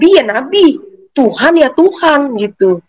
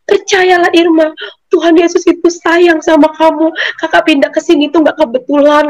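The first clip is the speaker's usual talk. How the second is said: higher-pitched retold exhortation; acted pleading assurance, pitched up; earnest persuading; 6 semitones higher than usual. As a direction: imitate someone urging belief. Acting out visitor's earnest persuasion.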